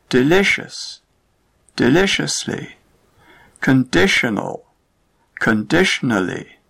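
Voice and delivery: perPETual, deLIcious, conDItional, ilLUsion, stress before the ending; stress demo pairs. Shown as a demonstration. Teacher showing word pairs to learners, stress unchanged. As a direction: keep the same stressed syllable across both forms. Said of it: "The Rule three ending determines where".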